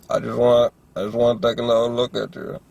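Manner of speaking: a light imitation of his thick Southern accent; thick Southern drawl. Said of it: "This fucking thick ass accent".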